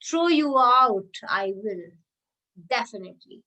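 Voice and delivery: a teacher hamming up a threat; dramatic threat. Shown as a demonstration. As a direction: relish the inverted threat. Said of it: "dramatic effect".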